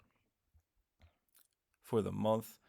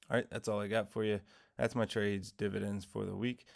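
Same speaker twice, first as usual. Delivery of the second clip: just woke up, rough morning voice; groggy morning voice. Real, not acted. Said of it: "Sorry for the morning voice".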